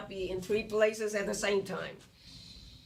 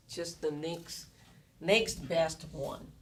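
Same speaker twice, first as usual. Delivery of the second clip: slow, deliberate "next, next best one"; stress on next best; slower than usual. Shown as a demonstration. Lecturer underlines "next best" for students, slow and deliberate. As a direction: lean on each word of "next best" slowly. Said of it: "I would underline the word next best alternative".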